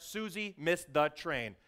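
slow announcement. Shown as a demonstration. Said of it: "all stories start".

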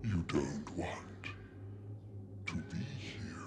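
slow, drawn-out eerie warning; dream voice. Acted. Voice in the narrator's deep sleep, slow eerie warning. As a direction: stretch each word out slowly, with long pauses.

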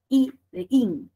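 "I" stressed, then "de in". Shown as a demonstration. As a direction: put the vocal force on "I". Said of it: "la fuerza de voz que tengo que contemplar como más alta".

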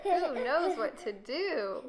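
laughing. Real, not acted. Laughing reading.

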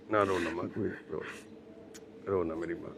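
soft, low, hushed comfort; gentle consoling. Real, not acted. Visitor telling a crying mother not to cry, soft and consoling.

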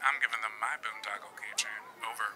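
whispered like a camper on a walkie-talkie; hushed secret whisper ending with over. Pretend. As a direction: kids whispering after lights out. Camp walkie-talkie whisper bit.

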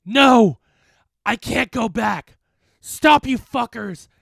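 high, desperate monster bellow; very loud demonic protest; shouting specter. A narrator's reading. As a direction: roar in refusal as you're defeated. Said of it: "the specter shouted".

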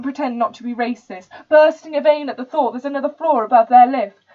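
put-on indignant tirade in a posh accent; dodgy posh accent. Rich student railing at the bourgeois, in an outraged posh accent. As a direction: rant with posh, entitled contempt. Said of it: "the accent's a bit dodgy".

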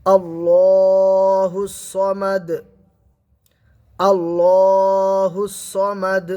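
আল্লাহুস সমাদ with a bounced echoing final দ; slow recitation with a qalqala echo; qalqala on dal. Shown as a demonstration. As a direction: end সমাদ with a bounce back. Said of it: "আওয়াজ double করে উচ্চারণ হয়".

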